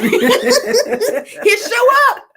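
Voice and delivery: laughing high through the words; giggling, can barely get it out. Real, not acted. Host laughing to viewers about a coupon joke, laughing.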